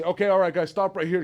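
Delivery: lightly acted soldier's call; calling a halt. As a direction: call the group to a stop.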